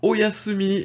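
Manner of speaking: "Oyasumi" said high and bright, four even syllables o-ya-su-mi; Japanese word demo. Shown as a demonstration. Teacher demonstrating "Oyasumi" to learners, high and clear. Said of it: "ça veut tout simplement dire".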